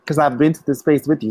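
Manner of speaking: talking through a yawn; words stretched by a yawn. Real, not acted. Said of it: "Was that a yawn?".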